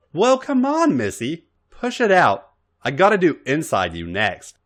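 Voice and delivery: impatient, high pushy prodding; impatient demand. Acted. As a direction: hurry her along, exasperated.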